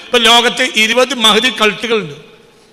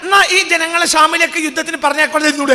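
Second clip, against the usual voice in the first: raised, higher rhetorical call; preaching shout; 5 semitones higher than usual. Real, not acted. Preacher challenging listeners, raised and higher. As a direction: fling the question out at the crowd.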